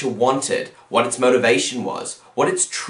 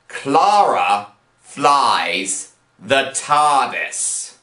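very slow, a pause after each word; emphatic repeat; much slower than usual. Shown as a demonstration. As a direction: spell out each word in disbelief. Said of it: "Let me repeat that".

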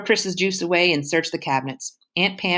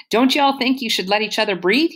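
teasing mother; 6 semitones higher, 4 dB louder than usual. Acted. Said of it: "she says".

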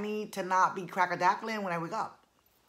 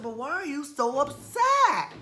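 high mock concern; 8 semitones higher, 7 dB louder than usual. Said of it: "I said".

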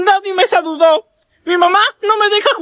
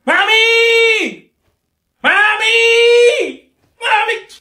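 calling mom; 4 semitones higher, much slower than usual. Acted. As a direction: yell for mom from another room. Calling out to his mother.

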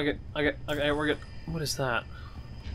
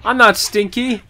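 mock whiny protest; 5 semitones higher, 11 dB louder than usual. Whiny protest at game enemies.

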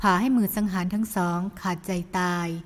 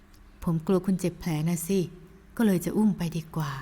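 gentle scolding man; 3 semitones lower than usual. Acted. Hero chides the woman who risked herself, lower. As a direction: mildly scold her, lower.

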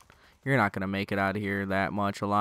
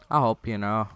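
plain; 5 dB louder than usual. Shown as a demonstration. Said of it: "repeated louder".

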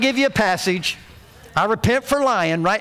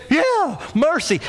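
higher, drawn-out imitation of a crying little boy; mock crying child; 6 semitones higher, slower than usual. Little brother echoes the plea, mock crying. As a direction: play a tearful little tagalong, half in jest. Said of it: "he's crying. He went".

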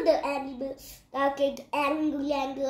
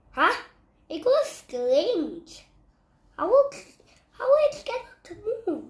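puzzled donkey; 8 semitones higher, 5 dB louder than usual. Acted. Donkey puzzled by still lion.

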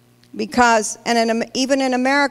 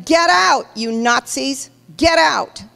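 retold yell; 3 semitones higher than usual. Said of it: "he yelled at them".

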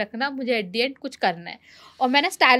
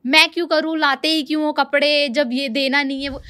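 a touch of indignant retort; flared up; 2 semitones higher than usual. Retold or imitated. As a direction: mimic her snapping back irritably. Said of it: "तो भड़क गई".

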